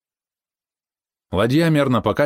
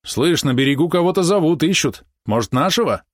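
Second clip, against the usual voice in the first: higher, uneasy questioning voice; worried; 8 semitones higher, 3 dB louder than usual. A narrator's reading. Boatman hears someone calling from shore, worried. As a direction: raise the pitch in concern. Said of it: "обеспокоенный голос одного из корабельщиков".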